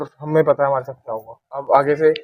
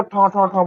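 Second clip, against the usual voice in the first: quick mimicked thuds on metal; imitated banging; 3 semitones higher, slower than usual. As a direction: mimic something knocking overhead. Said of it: "जैसे कोई चीज चल रही है". (ठा-ठा आवाज़ की नकल)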